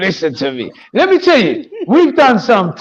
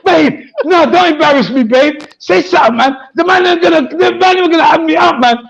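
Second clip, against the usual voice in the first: higher, mildly urgent mock plea; lightly acted pleading; 5 semitones higher than usual. Caller begging his girl to speak, lightly acted pleading.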